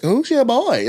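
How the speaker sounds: high-pitched, swooping callout with a laugh; exaggerated high-pitched heckle; imitated hyped greeting. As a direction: call it out high, playfully overdone. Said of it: "it was like that".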